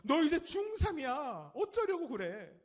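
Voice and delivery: high, loud, drawn-out mock scolding; nagging parent. Parent to a teenager in middle school, mock nagging. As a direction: wail the nag like an exasperated parent. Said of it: "초등학교 때 들었던 얘기가".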